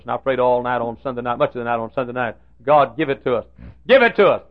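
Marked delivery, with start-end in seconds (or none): 3.9-4.4 a sudden loud, higher-pitched plea; pleading louder. Retold or imitated. Pastor reliving his all-night prayer, pleading loudly. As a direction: cry it out to God. Retold desperate prayer for money.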